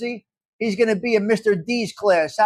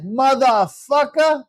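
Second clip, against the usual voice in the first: imitating; 2 semitones higher, slower than usual. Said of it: "That's what he said".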